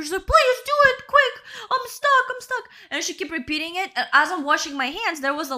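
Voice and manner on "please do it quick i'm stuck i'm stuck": high, whiny mock begging; hammed-up tearful plea; retold desperate plea. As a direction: imitate a trapped woman pleading, far above your own pitch. Acting out trapped woman's begging.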